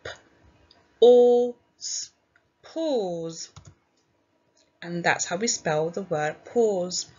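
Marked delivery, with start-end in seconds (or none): 0.0-2.1 P, O, S sounded one by one, O punched loud; sounding out. Shown as a demonstration. Teacher pinching sounds with class: each sound said apart. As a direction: segment the word into separate sounds. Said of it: "Let's pinch our sounds".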